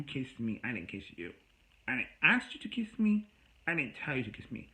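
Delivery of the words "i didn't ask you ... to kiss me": raised, sharp retort, voice jumping higher; indignant denial. Retold or imitated. Retelling the fight with her, a loud indignant denial. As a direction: fire back at her, offended. Arguing back over the kiss.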